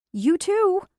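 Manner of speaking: high, loud flustered cry; flustered exclaim. Acted. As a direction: blurt it out in a panic. Flustered woman shouting.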